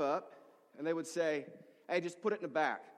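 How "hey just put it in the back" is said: curt, demanding imitation. Food bank client directing the pastor, with a tone. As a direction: imitate someone ordering the helper about. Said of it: "There was a tone".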